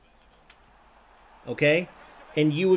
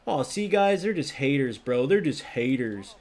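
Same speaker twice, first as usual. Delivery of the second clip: imitating Pantera. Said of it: "a player like Pantera came and said".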